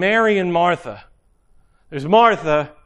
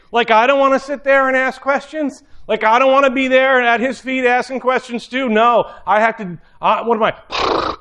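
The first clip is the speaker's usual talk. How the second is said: exasperated Martha; 3 semitones higher than usual. Retold or imitated. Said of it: "She's thinking".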